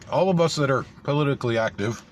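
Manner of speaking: talking with mouth full of snacks. Real, not acted. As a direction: speak around a mouthful of food. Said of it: "I'm gonna be talking with my mouth full".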